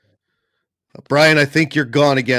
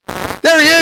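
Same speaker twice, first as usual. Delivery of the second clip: excited surprise; 5 dB louder than usual. Real, not acted. Brian finally reconnects.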